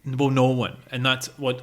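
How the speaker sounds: ordinary delivery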